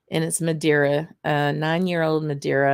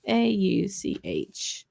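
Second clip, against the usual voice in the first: slow spelling out; 2 semitones higher, 4 dB quieter, much slower than usual. Shown as a demonstration. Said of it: "it's a space".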